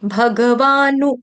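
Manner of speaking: भगवानु chanted slowly, ending on a short नु; bha-ga-vaa-nu with a clipped last vowel in भगवानु; short final nu. Shown as a demonstration. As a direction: stretch भगवानु but keep नु brief. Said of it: "नु जो है यहाँ पर छोटा नु".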